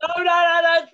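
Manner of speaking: high, loud urgent protest. Real, not acted. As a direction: stop him fast, loudly. Stopping sneeze onto dandelion.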